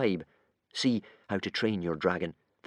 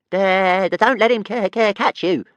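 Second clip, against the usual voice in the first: high, louder little dragon voice; squeaky dragon, not convinced at all; small doubtful dragon; 10 semitones higher, 8 dB louder than usual. A narrator's reading. Tiny dragon half-heartedly reassuring his master, high and doubtful. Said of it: "advised Toothless".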